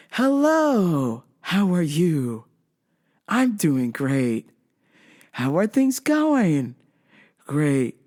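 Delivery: slow, sing-song stiff small talk; mock robotic niceness; robotic polite husband. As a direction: imitate a too-nice husband on autopilot. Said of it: "same with the husband".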